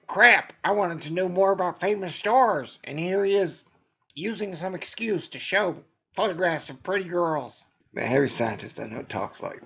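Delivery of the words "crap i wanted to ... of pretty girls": louder, lightly voiced grumpy nerd; annoyed science guy. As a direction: complain like a let-down science fan. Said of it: "some science guy who's like".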